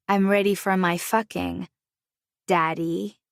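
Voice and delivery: a touch of a teasing purr; lightly purred, teasing her husband; seductive purr. Acted. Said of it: "I emphasized the word in a seductive purr".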